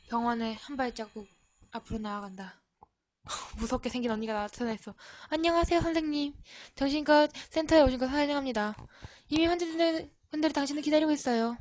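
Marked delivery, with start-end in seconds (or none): 5.3-11.6 lightly voiced polite nurse, a little higher; a sweet welcome, slightly raised; nurse's voice. The nurse greets the new doctor, lightly voiced and sweet. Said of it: "의외로 목소리는 좋았어".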